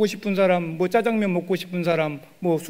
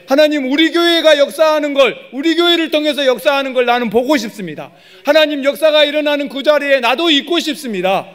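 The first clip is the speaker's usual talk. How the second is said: raised, louder pleading prayer voice; earnest prayer, pitched up and loud; fervent prayer; 7 semitones higher, 5 dB louder than usual. Pretend. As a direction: cry out to God with longing.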